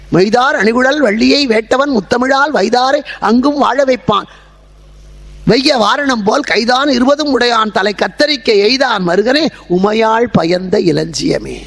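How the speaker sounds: measured, rhythmic verse delivery; verse recitation. Acted. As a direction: recite it as devotional poetry, slowing at the close. (செய்யுள் நடையில் ஓதுதல்)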